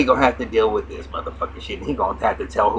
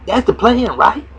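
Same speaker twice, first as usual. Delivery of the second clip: higher put-on woman's voice laying out the plan; scheming woman; 13 semitones higher, 6 dB louder than usual. Retelling the show, he voices the woman scolding Slim in a high pitch. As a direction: pitch her up high and scornful.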